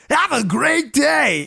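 a hammed-up comic farewell, drawn out; Joe Arbuckle voice. The host mocks the unsubscriber in a silly high voice. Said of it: "I had to use the Joe Arbuckle voice".

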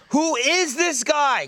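high, slow puzzled question. Retold or imitated. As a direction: draw it out in confusion. Verbaasde vraag tijdens film.

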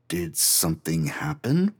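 hesitant, tentative question; a timid, uncertain question. Acted. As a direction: ask it unsure of yourself. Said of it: "I asked uncertainly".

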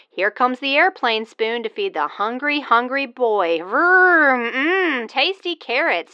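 mock baby talk feeding; sing-song spoon feeding a toddler; airplane spoon game. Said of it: "feed you".

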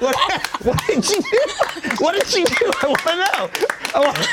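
high, loud and eager; eager excitement. Real, not acted. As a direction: beg to know what happens next. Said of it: "You'll have to find out next season".

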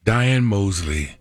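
noir detective. Acted. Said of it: "That was awesome".

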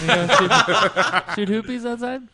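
high Australian accent, light mom impression. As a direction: do your Aussie mom asking a question. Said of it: "how my mom talks about".

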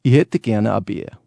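slow, broad Bavarian accent. Shown as a demonstration. For the radio host, a Bavarian accent. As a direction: order a beer like a Bavarian.

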